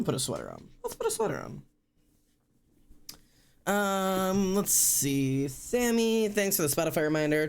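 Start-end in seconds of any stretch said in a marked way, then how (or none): 0.8-1.6 way up high and thin, sing-song; a goofy high-pitched cartoon voice; silly high voice. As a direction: chirp it like a cartoon helper.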